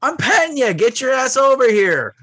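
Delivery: high, loud whining voice for the dog; whiny dog voice. Retold or imitated. Dog whining at its owner to come back, high and loud. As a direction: whine it like a needy dog. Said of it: "they look at you like whining".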